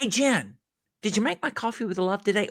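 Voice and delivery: friendly, quick and playful; warm personal greeting. Shown as a demonstration. Customer greets barista Jen by name with playful friendliness. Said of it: "contrast those with".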